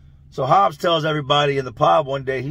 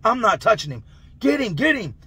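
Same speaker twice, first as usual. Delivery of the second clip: imitated squabble, pitched higher; higher acted bickering, rising at the end; arguing; 5 semitones higher than usual. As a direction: pass the job off in a mock argument. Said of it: "The guards are arguing".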